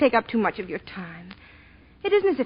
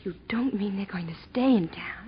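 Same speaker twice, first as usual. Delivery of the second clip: whisper; 2 semitones lower, 6 dB quieter than usual. Acted. Worried question about her in-laws.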